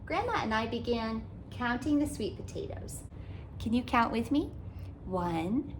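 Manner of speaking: put-on gentle, lively read-aloud for kids; storybook narration. A narrator's reading. Author reading a picture book to children, animated storytelling. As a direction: read it like storytime for little ones.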